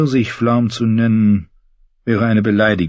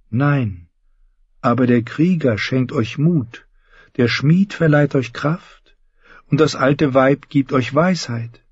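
put-on higher, slow, devout young knight; Lancel; 7 semitones higher, slower than usual. Lancel preaching to one-handed James, slow and devout. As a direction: preach the gods' gifts gently.

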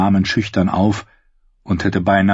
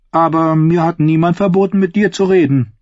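higher, sly persuading princess; coaxing princess; 9 semitones higher, 3 dB louder than usual. A narrator's reading. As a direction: coax her gently. Princess coaxing the servant girl. (listige Prinzessin)

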